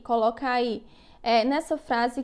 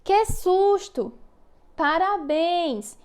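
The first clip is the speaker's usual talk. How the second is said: high, slow, stretched exclamation on "Que susto! Parabéns!"; exclaiming demo; 4 semitones higher, much slower than usual. Shown as a demonstration. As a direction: act out the fright and joy for the class, slowly. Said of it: "Por exemplo".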